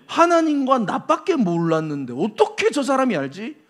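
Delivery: shocked. Acted. Nathanael wondering how this man knows his secret, shocked. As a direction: puzzle it out, taken aback. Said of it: "완전히 충격을 받게 된".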